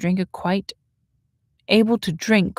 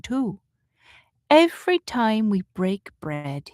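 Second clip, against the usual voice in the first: Rose's answering voice; 3 semitones higher than usual. Acted. Reader voices Rose's gentle answer.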